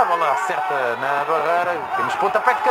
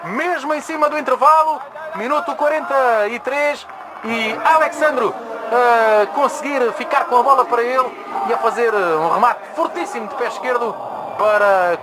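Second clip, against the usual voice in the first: explosive goal commentary; 8 semitones higher than usual. Real, not acted. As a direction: scream the goal to the stadium. Juventus equaliser goal call.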